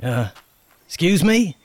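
loud, stammering, anxious plea; nervous stammer. Acted. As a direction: beg for help nervously. Nervous plea to medicine man.

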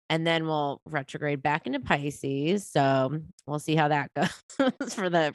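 stuffy, nasal sick voice; blocked nose. Real, not acted. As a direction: talk through a head cold. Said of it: "sick voice".

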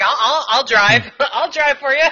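laughing, eager offer. Retold or imitated. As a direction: laugh as you volunteer. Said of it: "I was like".

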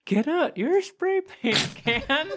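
high, slow showy voice; character voice. Acted. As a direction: ham it up as Rusty.

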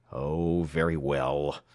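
low, grudging surrender; grudging mutter. A narrator's reading. Beaten cowman gives up to Alex, muttering grudgingly. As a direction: give in sullenly, pitch dropping. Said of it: "he muttered with a curse".

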